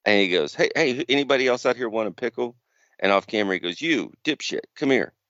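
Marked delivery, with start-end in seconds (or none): 0.5-2.5 mock wrestler calling out. MJF offering crowd pickles. 3.8-5.1 mock heel callout. MJF calling fan on stage.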